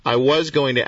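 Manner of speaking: "was" stressed to underline the past tense. Real, not acted. Host repeats his former plan for listeners, stress on "was". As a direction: hit the word "was", then carry on. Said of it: "catch the past tense there".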